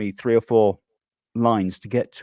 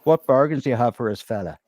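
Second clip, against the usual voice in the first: stallside customer; 3 semitones higher, 3 dB louder than usual. Acted. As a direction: play a self-important bargain hunter. Acting out market stall sketch.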